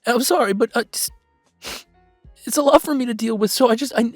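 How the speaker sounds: halting, heartfelt apology to the audience; getting emotional while thanking followers. Acted. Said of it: "I'm sorry to get emotional like this".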